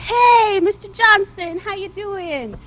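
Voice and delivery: loud, cheerful stall owner greeting; hearty shopkeeper. Acted. Apple stand owner greets the coach, loud and cheerful. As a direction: boom a friendly hello across the stand. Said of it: "he came out and he said".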